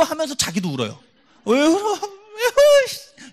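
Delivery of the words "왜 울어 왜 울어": high, loud, wailing mock sob, stretched out slowly; mock crying. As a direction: ham up a friend crying along, drawn out into a laugh. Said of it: "이렇게 울어요".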